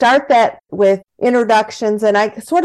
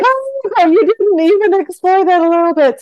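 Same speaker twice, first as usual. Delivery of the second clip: high, mock-shocked "oh" then a scolding tease; mock disappointed gasp; 10 semitones higher than usual. To the host, imitating a let-down client. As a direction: play the shocked client who expected more.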